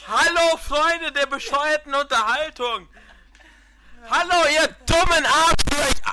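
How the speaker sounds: excited. Acted. Hammed host greeting.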